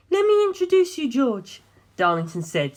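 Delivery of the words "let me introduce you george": put-on high, pleading young woman's voice; lifted female voice, anxious and imploring. A narrator's reading. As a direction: voice a distraught heiress begging for help. Darlington introduces fiancé.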